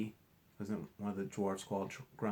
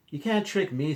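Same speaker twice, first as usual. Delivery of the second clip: firm character voice; 7 semitones higher, 8 dB louder than usual. Acted. Fluffy confronts the leprechaun.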